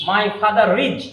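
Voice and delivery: father is linked as fatharis with R sounded; connected R. Shown as a demonstration. Teacher to students, demoing the connected R. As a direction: run father into is through the R. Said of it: "একসাথে হয়ে যাবে".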